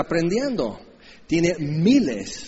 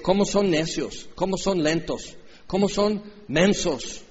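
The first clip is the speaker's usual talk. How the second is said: scolding. Retold or imitated. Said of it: "Y Jesús les regaña".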